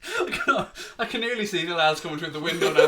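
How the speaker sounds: words breaking with laughter; laughing. Real, not acted. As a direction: giggle through the whole line. Laughing about imagined police raid.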